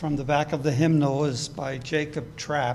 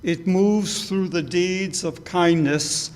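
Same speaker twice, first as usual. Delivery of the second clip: meditation reading; 3 dB louder than usual. Acted. Leading the congregation through the hymnal meditation, reverent reading.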